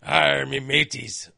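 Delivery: slow, lightly voiced mock pirate greeting; a hint of a sneering pirate, drawn out. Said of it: "the talk like a pirate day".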